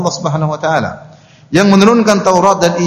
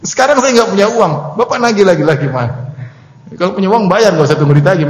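hammed-up scolding in a raised pitch; mock indignant debtor; 5 semitones higher than usual. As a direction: playfully turn the blame on the collector. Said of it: "dia malah marah-marah". (pura-pura mengomel dengan nada tinggi)

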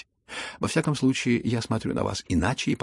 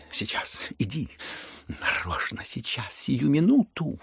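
impatient outcry; 4 semitones higher, slower than usual. Acted. Lizaveta drags the prince off, bursting with impatience. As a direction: hurry him out the door. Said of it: "вскричала она в припадке ... волнения и нетерпения".

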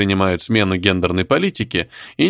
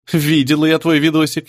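higher, giggly tease; giggling; 7 semitones higher than usual. Acted. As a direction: say it through a snicker. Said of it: "хихикнула Сопля".

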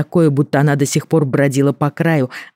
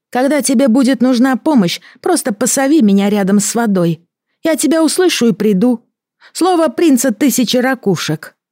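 high, strange water creature; gurgling alien voice; 10 semitones higher than usual. Acted. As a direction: promise in an eerie creature voice. Creature's promise, held voice.

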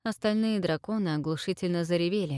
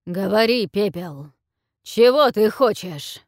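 impatient dragon; 3 semitones higher, 9 dB louder than usual. A narrator's reading. Dragon demands her wish.

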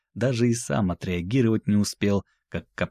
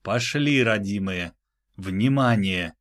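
exclaiming. Acted. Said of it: "теперь воскликнул он".

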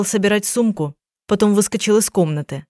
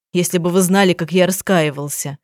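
ordinary delivery, nothing marked

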